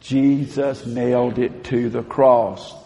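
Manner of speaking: slow, measured unison line; call-and-response affirmation. Shown as a demonstration. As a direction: lead the room through it slowly. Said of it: "can you say it with me?".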